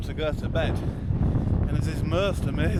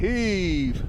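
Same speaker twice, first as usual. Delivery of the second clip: straining shout of heave; pulling hard and calling out; tug of war; 5 semitones higher, 4 dB louder than usual. Real, not acted. Tug of war effort call.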